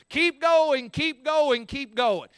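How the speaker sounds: high, loud coach yell fading off; fired-up coach yelling at a player. Retold or imitated. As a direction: shout him on like a coach. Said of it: "he's screaming at him".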